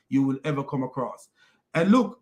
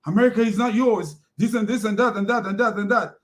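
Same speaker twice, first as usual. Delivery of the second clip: mock rant; 5 semitones higher than usual. Uthman telling a passer-by off, mock outburst. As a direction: ham up Uthman going off. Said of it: "Uthman goes off on the guy".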